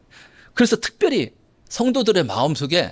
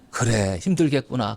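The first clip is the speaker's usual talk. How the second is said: gentle sympathy; 7 semitones lower than usual. Shown as a demonstration. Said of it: "그래야지".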